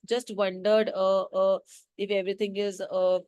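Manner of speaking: a hint of nervous stammering; hesitant, halting. The timid aunt falters at the doorway, mildly hesitant. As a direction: stop and start, as if scared. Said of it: "रुक रुक के, अटक अटक के, डर डर के बोला".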